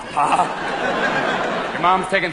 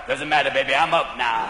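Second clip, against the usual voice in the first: coked-up player; 8 semitones lower than usual. Acted. Player to umpire, low and unbothered. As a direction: shrug off the umpire, low and easy.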